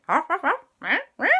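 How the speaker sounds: eager dog yapping an idea; dog barking. Acted. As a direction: bark as if explaining a plan. Ghost dog explains.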